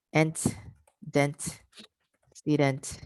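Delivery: "Ent, dent, student" as separate pieces growing from the word's end; back-chained. Shown as a demonstration. Teacher modelling back chaining, separate growing pieces "Ent, dent, student". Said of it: "This is how I would do it".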